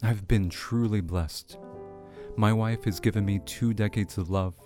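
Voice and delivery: measured presenter read over music; radio host read. Acted. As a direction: read it like a radio segment intro. Host reads segment over music.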